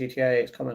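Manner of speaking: ordinary talk, nothing marked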